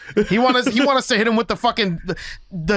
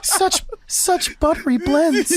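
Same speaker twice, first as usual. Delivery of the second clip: awed, laughing; 8 semitones higher, much slower than usual. Retold or imitated. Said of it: "I'm like".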